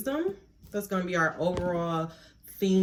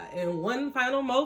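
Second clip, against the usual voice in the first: guided breathing. Acted. Guided breathing before a reading.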